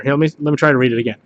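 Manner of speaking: ordinary talk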